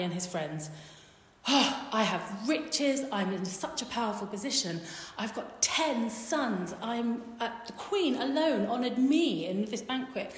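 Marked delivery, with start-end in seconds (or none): 1.5-10.3 emphatic, drawn-out bragging; boastful. Retold or imitated. Haman to family and friends, boasting. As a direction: brag grandly, leaning on each boast.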